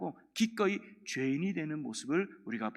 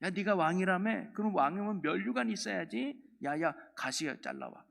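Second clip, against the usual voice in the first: mock jeering, pitched up at first; mocking soldiers; 3 semitones higher than usual. Soldiers taunt Jesus about needing a crown, mocking. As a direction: imitate soldiers taunting a so-called king. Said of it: "조롱하려고 하는 거예요".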